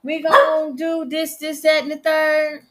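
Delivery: mock courteous escort voice; imagined surgeon's reassurance. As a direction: play the polite surgeon she expected. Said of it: "I'm over here thinking they gonna say".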